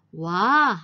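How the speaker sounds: WAH called out loud; loud, drawn-out exclaimed "Wah"; exclamation. Shown as a demonstration. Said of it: "wah ini ialah kata seru". ("Wah" dengan nada seruan yang kuat)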